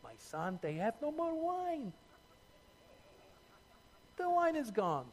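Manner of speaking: Mary as a Jewish mother, in a lightly put-on thick Jewish accent; a fond mom fretting in a thick Jewish accent, soft and high. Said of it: "thick Jewish accent".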